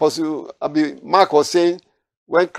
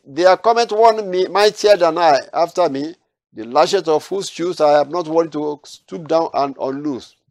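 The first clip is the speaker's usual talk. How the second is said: raised, solemn reading of the verse; scripture reading; 2 semitones higher than usual. Acted. Preacher reading the verse to his study group, solemn and raised. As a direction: proclaim the prophecy from the Bible.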